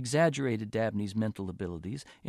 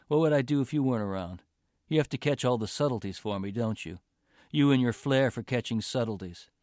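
fast, louder sarcastic jabs; sarcastic rant; 3 dB louder than usual. Acted. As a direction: needle her with growing anger. Boyfriend's sarcastic resentful rant.

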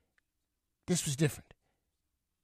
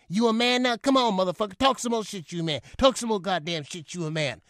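taunting father; 4 semitones higher than usual. Retold or imitated. Father strangling son, taunting.

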